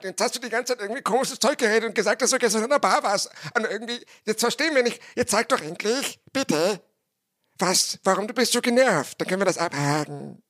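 hoher, quengelnder Zuhörerchor, der drängt; nagging listeners. Retold or imitated. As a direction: mimt die ungeduldigen Zuhörer, die höher und drängelnd nachfragen. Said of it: "so stelle ich mir euch übrigens vor". (Der Sprecher spielt seine ungeduldigen Zuhörer, höher und quengelnd)

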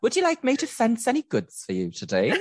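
very high, laughing mock glamour voice; femme fatale. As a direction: purr it like a campy Harlem femme fatale. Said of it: "me with my mobster outfit on".

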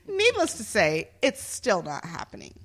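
dramatic reading of a complaint; actor's voice. Acted. Host reading police review to co-hosts, actor's voice. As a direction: perform the bad review like an indignant actor. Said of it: "I'm gonna be in my actor's voice".

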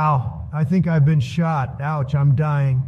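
hammy dying man, drawn out; mock dying. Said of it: "Martin Luther King and Malcolm X once said".

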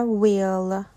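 "will" begun with a rounded W; W sound. Shown as a demonstration. Teacher giving WH examples, "will" said with W. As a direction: round the lips to start "will". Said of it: "تلفظ مشابه W".

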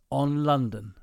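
put-on slow, sung-out Cockney London accent. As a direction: croon it like an old Cockney geezer. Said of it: "Why are you doing a really shit London accent?".

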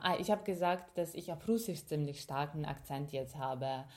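ordinary talk

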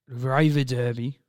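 hammed-up German accent on River Derby; playful fake German; mock German. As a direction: lean into a put-on German accent. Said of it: "I had to channel my inner German there".

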